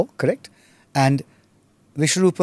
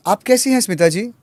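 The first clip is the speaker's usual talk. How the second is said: wrong phrasing; 6 semitones higher, much faster than usual. Shown as a demonstration.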